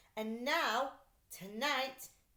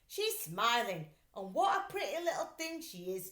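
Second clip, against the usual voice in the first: admiring crook; 2 semitones higher, 4 dB louder than usual. Acted. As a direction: coo over the pretty picture. Max admires the picture.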